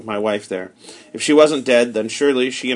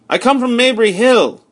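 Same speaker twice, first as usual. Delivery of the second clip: higher and louder, urgent; urgent reply; 11 semitones higher, 6 dB louder than usual. Acted. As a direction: call out quickly to explain. Narrator answers armed stranger.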